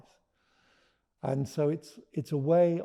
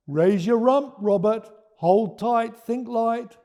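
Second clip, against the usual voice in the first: a raised, louder coaxing call; urging voice; 9 semitones higher, 10 dB louder, slower than usual. Acted. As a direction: coax him up the ladder. Norman rescuing Robert.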